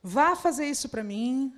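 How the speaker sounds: slow, commanding order from a bossy leader. Retold or imitated. A bossy leader ordering the team around, commanding. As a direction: demand it like a boss giving orders. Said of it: "os líderes falando assim".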